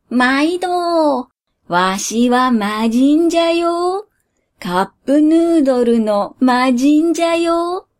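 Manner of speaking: lightly voiced creaky old genie; slow, sly old man genie.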